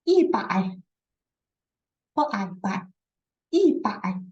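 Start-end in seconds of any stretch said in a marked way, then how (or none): 3.5-4.2 breathy unvoiced prompt; whisper. Shown as a demonstration. Teacher whispering the answer to students.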